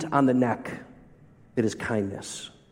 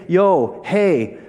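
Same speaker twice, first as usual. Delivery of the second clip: casual mock greeting; 2 semitones higher, slower than usual. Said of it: "He doesn't just say".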